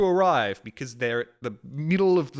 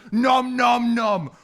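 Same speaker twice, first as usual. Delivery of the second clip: seagull chomping; 8 semitones higher, 8 dB louder, much slower than usual. Retold or imitated. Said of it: "just goes".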